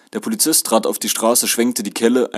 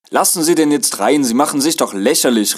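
loud, higher protest; indignant call; 5 semitones higher, 5 dB louder than usual. A narrator's reading. Passengers tell conductor to let him in, calling out loudly. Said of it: "rief man im Bus".

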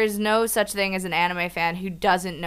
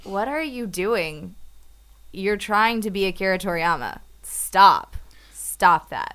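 mock scolding. Imitating a scolding critic.

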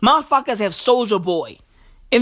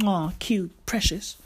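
mock cooing; 3 semitones lower, 8 dB quieter than usual. Mock cooing at a racist tattoo.

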